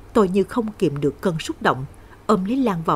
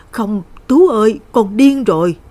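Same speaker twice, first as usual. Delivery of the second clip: loud, higher-pitched alarmed cry; 3 semitones higher, 8 dB louder than usual. A narrator's reading. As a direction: call out to stop him. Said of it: "Bác Thúy kêu lên". (kêu lên hốt hoảng)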